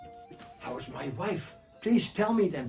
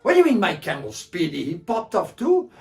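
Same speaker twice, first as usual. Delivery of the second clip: shocked; 4 semitones higher, 12 dB louder than usual. Acted. Bedou shocked about camel.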